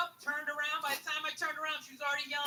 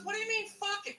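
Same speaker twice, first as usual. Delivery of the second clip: put-on higher, indignant girlfriend voice; incredulous girlfriend; 8 semitones higher than usual. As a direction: throw it back at him, offended. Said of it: "She goes".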